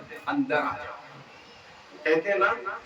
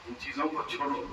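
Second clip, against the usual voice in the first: soft echo; 3 semitones lower, 6 dB quieter than usual. Real, not acted. Preacher repeating his plea to listeners, softer and lower.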